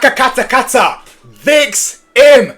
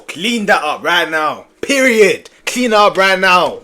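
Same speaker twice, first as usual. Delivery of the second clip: stern order; slower than usual. Real, not acted. Mock stern order, slow.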